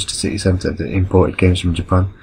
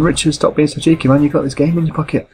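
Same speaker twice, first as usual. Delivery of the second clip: exasperated; 9 semitones higher than usual. Retold or imitated. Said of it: "And I'm thinking".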